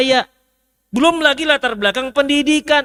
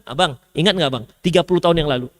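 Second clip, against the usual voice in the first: nagging wife; 8 semitones lower, faster than usual. Retold or imitated. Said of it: "ketika marah masih disebutkan".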